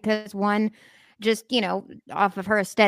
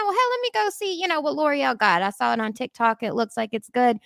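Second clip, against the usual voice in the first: much higher, musing shopper voice; imagined shopper; 4 semitones higher than usual. Retold or imitated. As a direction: voice a curious shopper talking herself into it. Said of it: "they've got it in the back of their mind".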